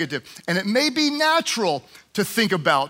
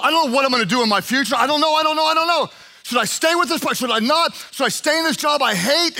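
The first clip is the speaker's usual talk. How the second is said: mock desperate rant; 2 semitones higher than usual. Acting out casting cares on God.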